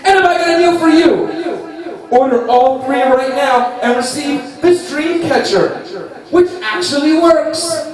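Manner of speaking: mock TV ad voice; infomercial pitch. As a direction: sell it like a late night ad.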